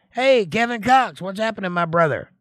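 high, loud cheerful greeting; big happy hello to a birthday listener; excited shout-out. Real, not acted.

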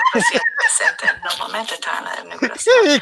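high, loud words through laughter; giggly high delivery; laughing. Real, not acted. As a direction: laugh while saying it.

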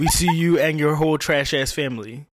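loud teasing call-out; mock call-out. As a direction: call her out, loud and mocking. Calling out a celebrity.

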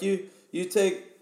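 high, halting Russian questioner; imitated Russian guy. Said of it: "one of the Russian guys. He's like".

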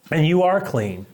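lifted, smiling reassurance; gently emphatic affirmation; with a smile. Retold or imitated. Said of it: "said that with a bit of a smile".

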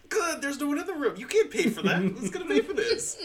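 high, loud, laughing disbelief; laughing mock outrage. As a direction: crack up while scolding the kids' plan. Mocking the kids' room charge.

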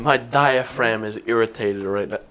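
hiccuping between words; hiccups. Real, not acted. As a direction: talk while hiccuping. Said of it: "I'm fucking hiccuping".

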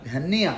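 להניח with a short patach and a hard, doubled n; doubled nun. Shown as a demonstration. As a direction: stress the nun in להניח, held as a double consonant. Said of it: "ואם תעשה את הה בפתח, הנון תהיה דגושה".

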